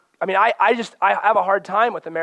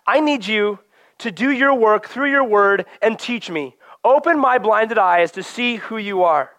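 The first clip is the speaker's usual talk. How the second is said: earnest prayer; 4 semitones higher than usual. Acted. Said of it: "go to the Word with this".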